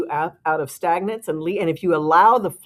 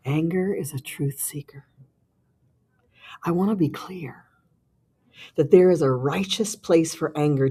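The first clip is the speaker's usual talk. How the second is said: sultry narrator; 2 semitones lower than usual. Pretend. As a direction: read it like a seductive narrator. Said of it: "You gotta do it in your sexy voice".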